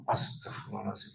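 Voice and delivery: Astagfirullahaladzim breathed out unvoiced; whispered astagfirullah. Preacher hearing the missionaries came down, whispered dismay. Retold reaction to bad news.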